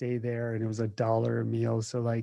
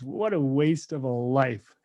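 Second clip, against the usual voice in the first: slow, scornful conqueror's verdict; dismissive Alexander; slower than usual. Retold or imitated. Alexander scoffing at the naked yogi, slow and scornful. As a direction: drag it out like a king unimpressed. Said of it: "And Alexander the Great goes".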